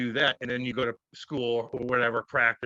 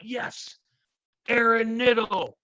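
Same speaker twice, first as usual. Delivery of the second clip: high, loud jubilant shout of the name; leaping up and cheering the name; excited cheer; 10 semitones higher, 5 dB louder, much slower than usual. Retold or imitated. Jumping up with dad at the draft, loud excited cheer.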